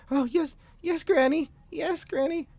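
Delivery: put-on very high, squeaky little-kid voices; obey Granny in a tiny high voice; sensitive children.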